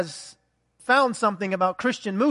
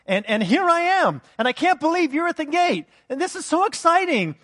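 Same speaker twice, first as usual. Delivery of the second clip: excited husband; 4 semitones higher than usual. Retold or imitated. Husband gushing at the gate.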